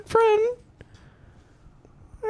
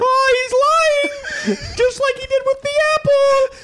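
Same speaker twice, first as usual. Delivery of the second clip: shouting protest; 3 semitones higher than usual. Pretend. Peterson character protesting.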